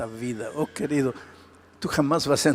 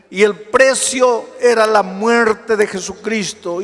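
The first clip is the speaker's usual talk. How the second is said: full-force preaching; 7 semitones higher, 8 dB louder than usual. Acted. Pastor preaching to the congregation at full force. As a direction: preach it out to the whole hall.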